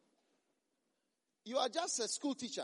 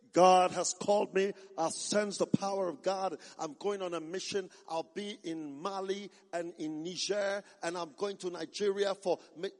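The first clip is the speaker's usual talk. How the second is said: imitated Zimbabwean missionary; 2 semitones lower, 7 dB louder than usual. Imagined Zimbabwean preacher announcing a mission to Africa, declamatory. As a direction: announce your calling like a travelling missionary. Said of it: "Rarely will you see a, a Zimbabwean say".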